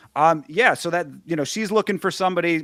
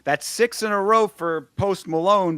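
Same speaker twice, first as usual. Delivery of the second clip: announcer; 5 semitones higher than usual. Retold or imitated. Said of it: "I love this announcer over the, the intercom 'cause he goes".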